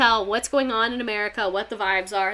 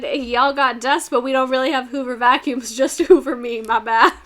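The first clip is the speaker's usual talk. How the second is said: mock Hoover; 5 dB louder than usual. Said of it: "He said".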